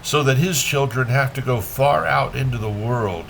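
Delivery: measured poem reading with pauses between lines; poetry reading. A narrator's reading. Reader shares Rilke's Sunset with listeners, measured poetry reading. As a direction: let each phrase stand, then fall away.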